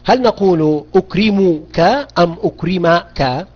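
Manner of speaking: أكرمك first with u, then with a, drawn out slowly; slow contrast: ukrimuka, then ukrimaka; ending vowel contrast. Shown as a demonstration. Teacher contrasts vowel endings for students, slowly. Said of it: "بالفتح أم بالضم الآن".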